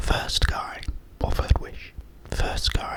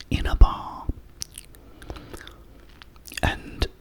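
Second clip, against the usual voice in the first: whisper. Real, not acted. Telling viewers a joke, in a whisper. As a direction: tell the joke in a hushed ASMR whisper.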